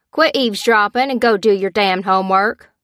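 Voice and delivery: loud, irritated father's order; yelling dad. A narrator's reading. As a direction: yell it like a fed-up dad. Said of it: "her dad yelled".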